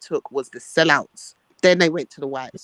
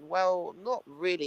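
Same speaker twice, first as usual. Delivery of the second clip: soft, hesitant imitation; retold meek reply; 7 dB quieter, slower than usual. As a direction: back down quietly as the friend. Friend backing down in the retelling.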